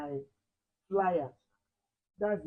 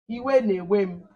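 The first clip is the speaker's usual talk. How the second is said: iwe na-ewe m said slowly, iwe stressed; slow model phrase; 4 dB louder, slower than usual. Shown as a demonstration. Teacher modelling iwe na-ewe m slowly for the class. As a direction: spell it out slowly for the pupils. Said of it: "How would you say".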